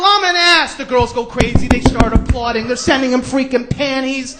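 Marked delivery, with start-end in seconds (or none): 0.0-0.7 loud, high hammed-up shout; like he means it. Guest finally obeying TV host, emphatic shout. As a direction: yell the confession with conviction. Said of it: "Say it like you mean it".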